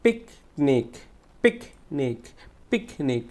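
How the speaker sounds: পিকনিক split in two, firm "pik"; stressed first syllable. Shown as a demonstration. Teacher drilling students, forceful first syllable in পিকনিক. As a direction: punch "pik" and pause before the end of পিকনিক. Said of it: "জোরে উচ্চারণ করবো".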